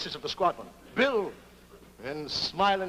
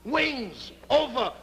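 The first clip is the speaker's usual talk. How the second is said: mock movie title; 4 semitones higher, much slower than usual. Announcing the film title.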